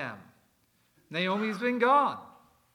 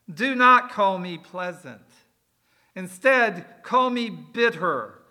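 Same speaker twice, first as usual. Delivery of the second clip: louder and slow, leaning on NOT and CALL; bitter retort; 7 dB louder, slower than usual. Acted. Naomi refuses her old name to the women, loud and slow. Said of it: "But Pleasant said".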